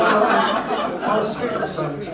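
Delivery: laughing while speaking; slow, giggling words. Real, not acted. Laughing after joke.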